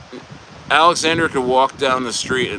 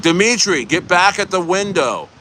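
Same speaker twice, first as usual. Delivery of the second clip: bossy manager; 3 semitones higher than usual. Retold or imitated. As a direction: scold a worker back to the drive-through window. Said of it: "they're like".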